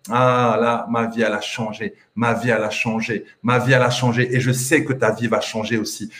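low, sincere reassurance; heartfelt testimony. Real, not acted. Coach telling listeners their life will change too, low heartfelt testimony. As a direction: drop low and speak from experience.

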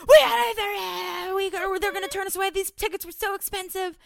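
high, crying panicked whine; panicky boyfriend. Retold or imitated. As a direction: whine it like he's about to lose it. Aaron panicking in traffic, voiced.

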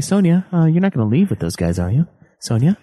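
mock half-hearted calling after someone; calm. Mocking the hero as Sonya sails away, calm. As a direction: imitate a mild, unworried objection. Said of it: "So calm".

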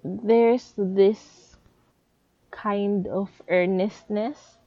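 speaking through a retainer; words blurred by a dental retainer; wearing a retainer. Real, not acted. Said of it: "sorry, I have my retainers on".

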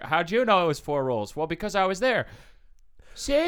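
high, loud smug dim cop; dumb cop voice. Pretend. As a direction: gloat like a dim detective. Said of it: "and he's like".

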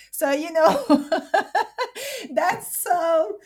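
laughing through pain; nervous laughter. Real, not acted. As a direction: laugh it off, half-choked. Nervous laughter over painful story.

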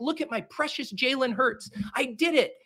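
put-on high, childish gloating over a pretty team; giddy fan voice. Imagining a perfect team, squeals a childish high yay. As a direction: coo over the roster like a proud kid. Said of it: "I can be like".

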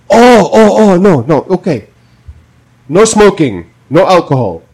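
high, flustered nurse backpedalling; lightly mimicking the nurse. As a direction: play the nurse caught off guard. Voicing the nurse.

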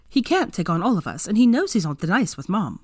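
emphatic, dismissive retort; scoffing. Acted. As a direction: brush the idea off with a touch of scorn. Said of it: "Ginny scoffed".

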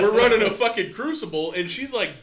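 laughing while talking; words breaking into laughter. Real, not acted. Laughing about racing his wife.

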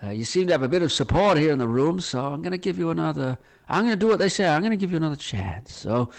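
lightly voiced American boss; folksy American accent, playing the boss; American quizmaster addressing a young fella. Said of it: "I think my American accent was pretty good".

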